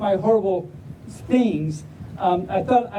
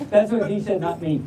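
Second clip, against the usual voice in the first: usual speaking voice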